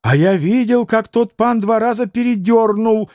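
restrained shout; mild cry. Acted. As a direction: call out what you witnessed. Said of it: "крикнул Колганов".

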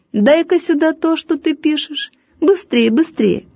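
high, insistent teacher command; stern teacher demand. A narrator's reading. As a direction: snap for the note, impatient.

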